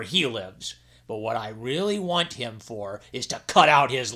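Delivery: king instructing his servant jellyfish; commanding king. Acted. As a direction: lay out the task with authority. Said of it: "and said".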